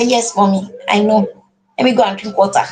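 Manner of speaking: put-on a willing child answering mommy; compliant child. Child agreeing to mother's gentle request, cooperative. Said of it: "he said".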